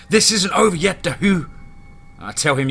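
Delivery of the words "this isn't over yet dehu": high, loud defiant shout; shouted warning to a rival. A narrator's reading. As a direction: call it out as a raised-voice threat. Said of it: "The leader shouts".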